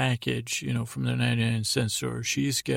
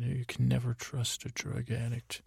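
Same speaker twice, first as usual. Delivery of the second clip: imitating a calm boss who won't raise his voice; quiet, powerful menace; 6 dB quieter than usual. Boss warns Walt about his partner, quiet and powerful. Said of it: "he speaks so quietly and powerfully".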